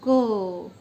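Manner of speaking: क said loud with a clear अ after it; loud consonant demo. Shown as a demonstration. Teacher showing students that क carries अ: loud क. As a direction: sound क sharply so the अ rings. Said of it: "जब हम क का उच्चारण करते हैं".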